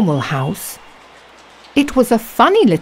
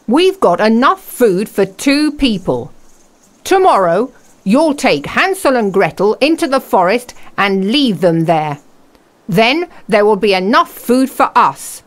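wicked stepmother; 3 semitones higher than usual. Acted. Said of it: "said the stepmother".

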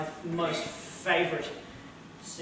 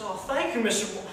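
James Stewart; 3 semitones higher, faster than usual. Retold or imitated. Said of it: "an excellent actor named James Stewart".

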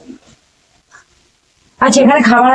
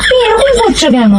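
much higher, laughing it out; giggling exasperated repeat; high laughing plea; 8 semitones higher than usual. Real, not acted. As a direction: squeal the question through laughter.

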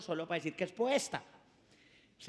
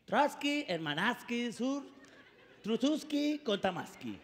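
mock Russian; 4 dB quieter, slower than usual. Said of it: "arranca el poeta ruso".

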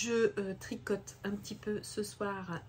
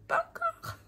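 amused, words dissolving into laughter; laughing. Real, not acted. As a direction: break into a laugh while saying it. Rit du faux printemps. (en riant)

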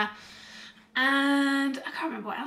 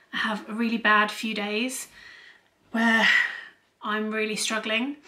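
blocked nose. Real, not acted. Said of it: "got a little bit of a cold".

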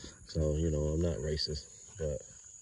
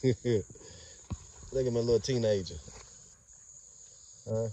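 slow, higher, doting coo; 4 semitones higher, slower than usual. Real, not acted. Owner cooing slowly at his young dogs. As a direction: stretch it out fondly over the pup.

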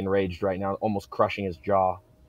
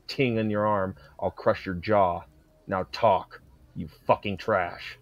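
cold threat; slower than usual. Acted. Threatening the captive.

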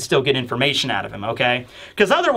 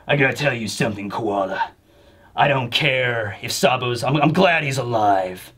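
Christian Bale Batman voice; 6 semitones lower than usual. Retold or imitated. Dragon telling Koala about Sabo, low Batman voice. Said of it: "the Christian Bale, uh, Batman voice here".

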